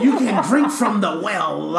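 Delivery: giggling as she speaks; cracking up mid-sentence; laughing through words. Real, not acted. Pun repeated, laughing.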